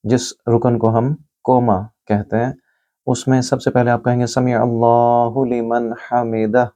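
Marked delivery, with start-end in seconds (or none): 4.3-6.7 समी with a throaty ain; careful Arabic phrase with a throaty ain; tajweed recitation. Shown as a demonstration. Teacher showing the phrase for standing, careful recitation. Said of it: "आइन को गले से बोलिए".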